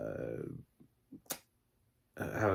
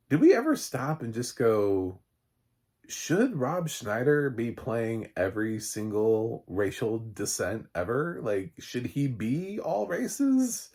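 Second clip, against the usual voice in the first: incredulous mock question; 3 semitones higher, 4 dB louder, slower than usual.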